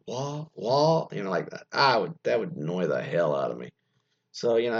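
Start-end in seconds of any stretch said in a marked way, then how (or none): 0.0-1.1 California "wah" with the ending left off; mock California accent. Host mocking an accent that annoys him, mock California accent. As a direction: mimic California English, dropping final consonants. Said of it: "hard consonants or whatever".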